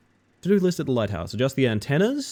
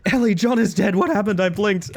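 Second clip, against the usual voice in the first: high-pitched playful shock; mock alarm; 9 semitones higher, 5 dB louder than usual. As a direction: blurt it out in hammed-up disbelief. Mock shock at choking chat member.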